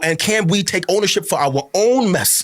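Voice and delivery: fervent, pleading sermon cadence; impassioned preaching. Real, not acted. Pastor urging brothers and sisters back to scripture, impassioned preaching. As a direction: drive each repeated appeal home like a preacher.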